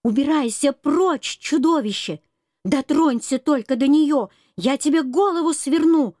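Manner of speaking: shouting. Acted. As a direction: shout to drive the beast off. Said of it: "громко закричала".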